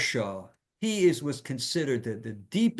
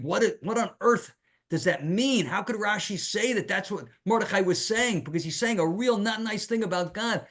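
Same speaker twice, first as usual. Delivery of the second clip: baffled wondering; 6 semitones higher than usual. Acted. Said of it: "he's, he's, he's wondering".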